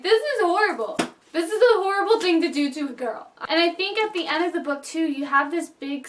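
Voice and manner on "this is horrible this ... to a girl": higher, tearful outrage at the scene; upset reaction. Retold or imitated. Retelling her reaction to the breakup scene, tearful. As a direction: protest it like it hurt you. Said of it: "And I'm just like".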